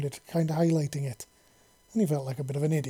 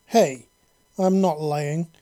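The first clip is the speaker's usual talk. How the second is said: much louder furious shout; yell; 8 dB louder, much slower than usual. A narrator's reading. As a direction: shout her down. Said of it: "he yelled".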